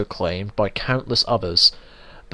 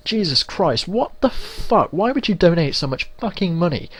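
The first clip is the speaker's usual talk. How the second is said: exasperated outburst; 8 semitones higher than usual. Real, not acted. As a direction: stretch it out, utterly fed up. Ranting about donations against marriage.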